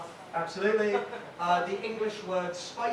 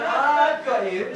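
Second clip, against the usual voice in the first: a louder, very slow mock stage whisper; 4 semitones higher, 9 dB louder, much slower than usual. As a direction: play the dealer hamming up a theatrical whisper. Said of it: "Stage whispers".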